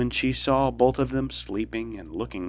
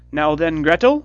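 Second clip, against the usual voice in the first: loud, much higher witch shriek; cried; 7 semitones higher, 11 dB louder than usual. A narrator's reading. Impatient witch calling the girl, loud high cry. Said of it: "she cried to the girl".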